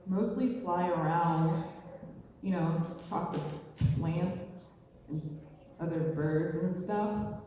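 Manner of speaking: slow, halting answer with pauses; mildly awkward mumbled small talk; awkward suitor. Acted. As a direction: list it haltingly, unsure what to say. Suitor answering girl's father, halting.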